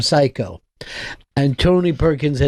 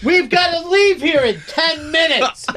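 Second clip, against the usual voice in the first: hammy stage actor; 12 semitones higher than usual. Retold or imitated. Mocking a stage actor calling for Carol. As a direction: overact calling offstage.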